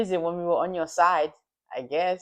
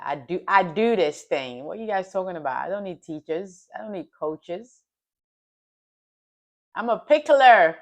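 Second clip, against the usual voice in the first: put-on American accent; 4 dB louder than usual. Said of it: "In my American, best American accent".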